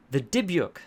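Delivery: loud high screamed name; manic scream. A narrator's reading. Possessed patient screaming at her therapist, manic scream. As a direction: scream it out in panic. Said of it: "Lisa screamed manically".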